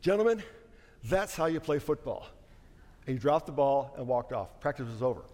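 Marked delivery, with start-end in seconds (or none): 0.0-2.3 mock-winded coach addressing the team; imitated breathing hard. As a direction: act lightly out of breath, pausing after the first word. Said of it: "he's still breathing hard".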